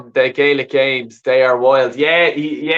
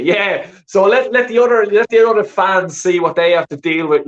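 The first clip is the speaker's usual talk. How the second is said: heated rant; 6 semitones higher, 3 dB louder than usual. Real, not acted. Rising rant about rival fans.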